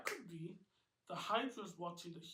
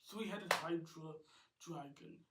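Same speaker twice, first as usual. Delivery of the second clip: ordinary delivery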